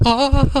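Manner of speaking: high, drawn-out "ahhh" of longing; awestruck moan. Retold or imitated. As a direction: let out a high wanting "ahhh". Begging for a peek, retold.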